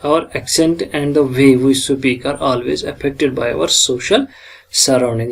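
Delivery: measured lecture reading, word by word; slow, deliberate textbook reading; slow reading aloud. Acted. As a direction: read each English phrase slowly from the notes. Reads English text slowly.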